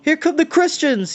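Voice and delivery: high loud alarm cry; yelled. A narrator's reading. Voices below yelling a warning, high and loud. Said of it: "yelled voices below".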